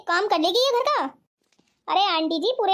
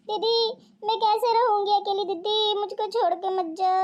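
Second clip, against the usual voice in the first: tearful plea. Acted. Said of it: "एक दूसरे के बगैर ऐसे रो रही थी".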